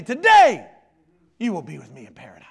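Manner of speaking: anguished shout. Acted. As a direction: force the word out with all your breath. Jesus straining to speak, shouted.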